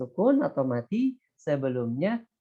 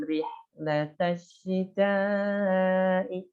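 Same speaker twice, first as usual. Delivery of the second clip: very slow chanted recitation; Quran recitation; 2 semitones higher, much slower than usual. Shown as a demonstration. Teacher recites an example verse, slow chanted recitation. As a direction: chant it slowly in tajwid style. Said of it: "misalnya di sini".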